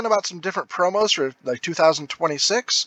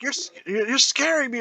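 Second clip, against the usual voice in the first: Mister Green; 8 semitones higher than usual. Retold or imitated. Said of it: "he's like".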